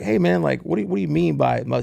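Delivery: fired up. Retold or imitated. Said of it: "I'm getting fired up".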